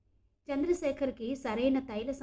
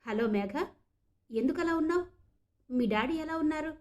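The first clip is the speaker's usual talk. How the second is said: worried, higher pitched questions; anxious; 5 semitones higher than usual. Acted. Saket anxiously calling Meghana about her father. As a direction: ask fast with concern in the voice. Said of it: "కంగారుగా అన్నాడు సాకేత్".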